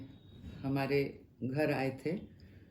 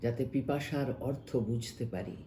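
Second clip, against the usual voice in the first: measured Bangla verse reading, pausing between phrases; expressive recital of a translated poem; poem recitation. Acted. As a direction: recite it line by line, letting the phrase endings sink.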